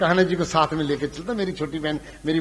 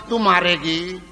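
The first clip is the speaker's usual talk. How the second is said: ordinary talk, nothing marked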